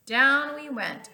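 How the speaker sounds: storybook drama on the fall; dramatic drop. A narrator's reading. Falling into the earth.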